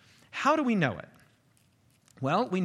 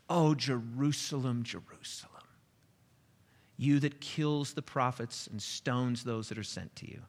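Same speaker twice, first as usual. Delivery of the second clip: grieving lament; 2 semitones lower than usual. Acted. Jesus lamenting over Jerusalem.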